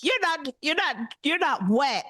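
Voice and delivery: accusing teacher. Retold or imitated.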